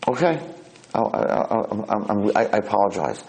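hesitant, stammering apology; flustered. Acted. Shocked roommate apologises to blind man, flustered. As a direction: falter before getting the apology out. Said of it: "he doesn't know what to do".

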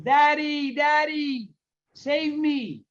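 high, drawn-out cry for Daddy; mock crying plea. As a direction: imitate a desperate child calling to Father. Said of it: "He begins to cry".

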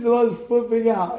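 usual speaking voice

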